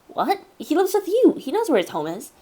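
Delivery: a hint of a confused kid; lightly voiced kid.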